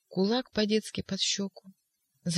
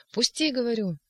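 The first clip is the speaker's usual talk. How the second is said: much higher cry, пусти pushed hard; struggling shout; 6 semitones higher than usual. Acted. Ivan struggling with orderlies, shouting. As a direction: fight free and demand it. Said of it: "кричал".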